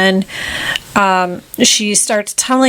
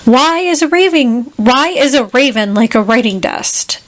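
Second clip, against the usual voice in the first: lightly acted riddler, pitched up at first; Mad Hatter; 3 semitones higher than usual. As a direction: pose a riddle with a hint of character. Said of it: "the Mad Hatter is just like".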